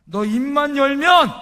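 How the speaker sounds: retold plea, pitched high and loud; mother's tearful plea. Mother begging her mute son to speak, acted pleading. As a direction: raise the voice in an imitated desperate appeal. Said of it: "하염없이 울면서 이 아들한테 이렇게 이야기하는".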